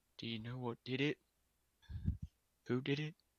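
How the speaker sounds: soft, shaky, trembling voice through tears. A character held by two companions asks who did it: shaky tearful voice. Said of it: "through a tears in a shaky voice".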